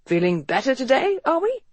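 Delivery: bright, fake-cheerful nurse tone; artificial cheer. A narrator's reading. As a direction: put on a chirpy sickroom cheer, high on "are we". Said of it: "in a tone of artificial cheer".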